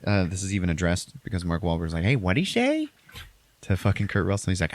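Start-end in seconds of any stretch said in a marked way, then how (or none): 2.0-2.9 high mock shout. Wahlberg asking Kurt over the rotor, high mock shout. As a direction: call out over the noise.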